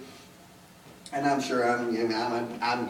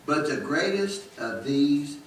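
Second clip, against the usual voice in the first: raised, ringing scripture recital; scripture recitation; 3 semitones higher than usual. Acted. Preacher reciting Corinthians to the congregation, raised. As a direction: proclaim the verses to the church.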